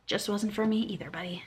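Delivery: unvoiced whisper, teasing; whispered reply. Real, not acted. Whispered reply to the reviewer, teasing. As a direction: breathe it like a private joke.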